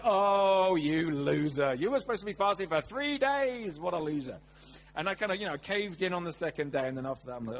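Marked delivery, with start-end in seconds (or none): 0.0-4.4 self-scolding. Retold or imitated. Scolding himself for caving in, mock disgust. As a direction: berate yourself, stretching out loser.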